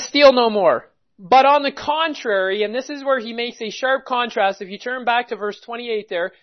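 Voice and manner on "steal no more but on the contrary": loud preaching. Real, not acted. Preacher booming the command to his congregation, loud. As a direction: proclaim it loudly to the congregation.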